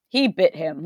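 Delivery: flat monotone imitation. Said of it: "the most monotone voice".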